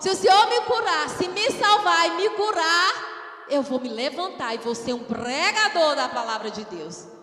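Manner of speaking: loud, high plea that drops in pitch by the end; fervent acted cry to God; impassioned shouted vow. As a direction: proclaim the promise at full pulpit force. Vow repeated at full force.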